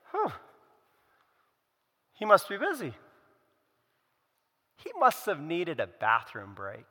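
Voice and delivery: mild dry sarcasm, mocking the idol's absence; sarcastic. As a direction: tease them lightly as Elijah. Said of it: "Hear the sarcasm in Elijah's voice".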